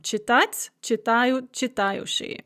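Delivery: Читать, читают, читающий with the А stressed each time; fixed stress on А. Shown as a demonstration. Teacher repeats the verb forms, stress fixed on А. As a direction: hold the accent on А through Читать, читают, читающий. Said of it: "stress is also fixed on the а".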